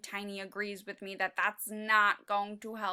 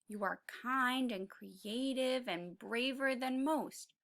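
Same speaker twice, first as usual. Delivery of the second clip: tender reassurance; 6 dB quieter than usual. Acted. Reassuring the little character.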